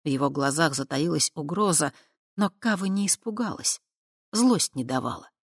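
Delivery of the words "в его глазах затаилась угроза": plain reading voice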